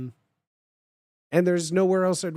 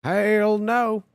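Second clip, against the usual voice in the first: Southern "Hell no" with "no" drawn as "naow"; country Southern twang on "Hell no"; Southern accent; 5 semitones higher, 5 dB louder than usual. Acted. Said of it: "Cornbread Southern".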